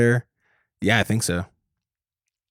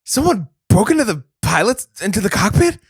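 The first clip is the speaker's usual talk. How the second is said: higher, hammed-up Boston tough guy; mock Wahlberg; 9 semitones higher than usual. Podcast bit, he voices the star discovering the hijack. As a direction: bluster like a dim action star.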